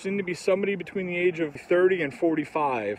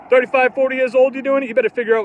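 angry shout; 7 semitones higher, 8 dB louder, faster than usual. Real, not acted. Angry rant at goths.

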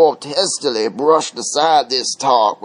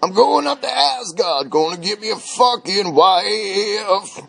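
strut it like a rock-and-roll opener, pitched up; Elvis the dwarf; 5 semitones higher than usual. Acted. Dwarf announces his trip to Asgard for a wife, Elvis swagger. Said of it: "Elvis the dwarf tramped".

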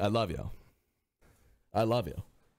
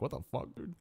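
hushed disbelief; 8 dB quieter, faster than usual. Retold or imitated. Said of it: "I was like".

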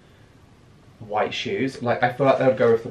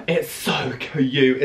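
slow gasp and coo; much slower than usual. Real, not acted. Gushing over the print.

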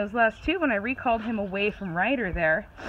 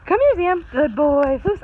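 louder call and praise, higher pitch; calling the dog; 6 semitones higher, 7 dB louder than usual. Real, not acted. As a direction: call the dog over, then reward him.

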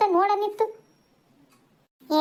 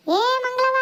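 higher-pitched call to a neighbour; raised, high calling voice; calling louder; 4 semitones higher than usual. Acted. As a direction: call out so she hears indoors. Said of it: "ಒಂದ್ ಇಟ್ ಜೋರ ಕೂಗು".

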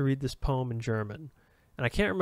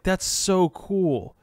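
mock gush; 5 semitones higher, 3 dB louder, much slower than usual. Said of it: "Which is like".

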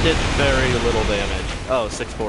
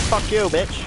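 crab talking back; 8 semitones higher, slower than usual. Pretend. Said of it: "I said".

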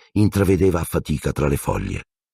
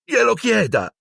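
put-on urgent boy. Ron insists.

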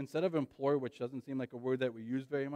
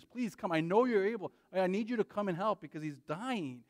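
higher, pleading father begging Jesus; desperate pleading; 5 semitones higher, 4 dB louder than usual. Retold or imitated. Father begs Jesus to save his son, higher desperate plea. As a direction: cry out to Jesus for a dying son. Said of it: "He pleaded with Jesus".

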